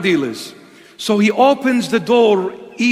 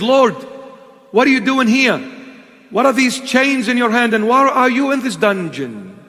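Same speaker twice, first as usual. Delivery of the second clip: shocked plea; 4 semitones higher than usual. Retold or imitated. Pleading vision of Christ.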